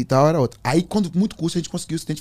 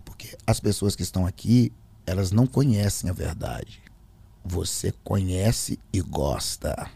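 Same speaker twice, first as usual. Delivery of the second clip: low, slow accusation; imitated demonic calm; changed, possessed voice; 6 semitones lower, slower than usual. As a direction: draw it out deep and deliberate. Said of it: "mudou a voz".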